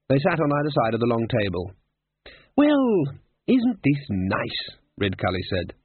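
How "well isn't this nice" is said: cheery wizard. Acted. Ridcully cheery at table.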